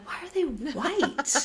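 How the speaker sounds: high, slow, laughing incredulous question; laughing disbelief. Retold or imitated. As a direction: laugh at how absurd it is. Baffled shop story, laughing.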